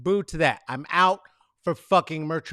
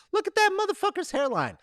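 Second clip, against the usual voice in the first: mocking; 14 semitones higher, faster than usual. Real, not acted. Mocking a photo.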